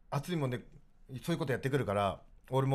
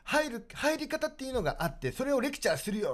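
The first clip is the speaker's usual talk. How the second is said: put-on old man instructing; 6 semitones higher than usual. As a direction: lecture them like a bossy regular. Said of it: "って言われて".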